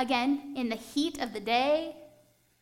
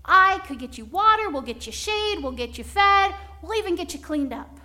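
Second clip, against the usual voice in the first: eager offer; 3 semitones higher, 4 dB louder than usual. Acted. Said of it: "Abraham said".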